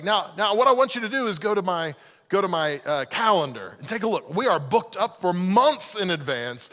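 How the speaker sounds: a hint of a pushy preacher; mildly salesy pastor on the phone; lightly voiced pastor. Pastor pressing to book a visit at the church. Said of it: "pastor voice going".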